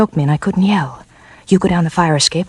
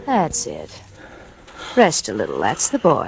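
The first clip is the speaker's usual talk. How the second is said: soft soothing; 6 semitones lower, 6 dB quieter, slower than usual. Acted. Soothing the hurt man.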